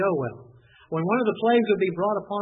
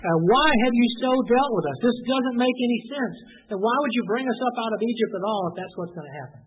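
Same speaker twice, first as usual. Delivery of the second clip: higher, louder mocking whine; sarcastic; 4 semitones higher, 4 dB louder than usual. Israelites sneering at Moses over the desert, sarcastic. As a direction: needle Moses with each question. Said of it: "You can see the sarcasm in the voice".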